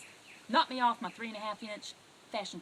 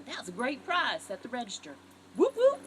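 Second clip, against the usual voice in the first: excited whoop whoop; 8 dB louder than usual. Shown as a demonstration. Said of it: "Just go".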